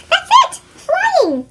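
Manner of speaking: high, loud eureka burst; thrilled shout of discovery; sudden excited idea. A narrator's reading.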